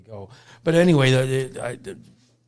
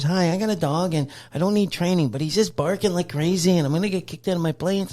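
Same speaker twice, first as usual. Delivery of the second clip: higher, mock whiny caller; a hint of a panicked young woman on the phone; 6 semitones higher than usual. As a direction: play the frantic caller with a barking dog. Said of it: "She goes".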